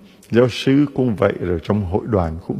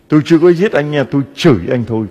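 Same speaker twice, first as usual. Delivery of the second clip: mock indignant quarreler; 4 semitones higher, 4 dB louder, faster than usual. Priest voicing a quarreler.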